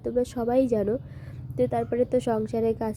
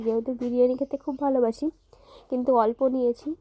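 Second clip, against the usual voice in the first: talking while eating; words round a bite of biryani; mouth full. Real, not acted. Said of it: "সেটাই খাচ্ছি". (মুখে খাবার নিয়ে কথা বলা)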